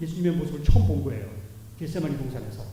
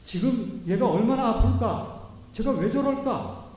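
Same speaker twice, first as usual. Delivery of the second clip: tender worried parent; 5 semitones higher, slower than usual. Acted. The Lord's caring thoughts voiced.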